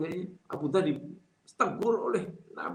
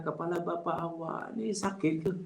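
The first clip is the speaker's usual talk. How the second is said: polite question intonation; 4 dB quieter than usual. Shown as a demonstration. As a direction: ask it kindly, with concern. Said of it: "Itu intonasi". (intonasi bertanya yang sopan)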